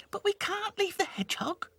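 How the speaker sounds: high, mild wail. Acted. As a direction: wail it out pleadingly. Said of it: "wailed Lucy".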